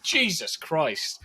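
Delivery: slow mock-astonished oath; stunned exclamation. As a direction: react to a jaw-dropping twist, stretching the words. Acts out a stunned viewer's reaction.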